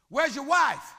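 loud and high, preaching; booming God voice. Acted. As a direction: call out like God. God and Abraham dialogue.

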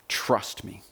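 breathy hushed trust me; whispered repeat. Retold or imitated. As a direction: drop to a whisper. Repeated softer, nearly whispered.

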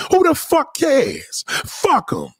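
sudden high-pitched outburst; exasperated shout. Real, not acted. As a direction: blow up at the complainers. Outburst at complainers.

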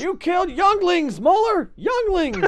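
high, drawn-out accusing cry; hammed-up movie-hero anguish; mock horrified outcry. Continuing the Star Wars parody.

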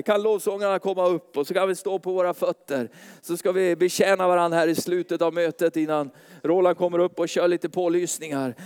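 usual speaking voice

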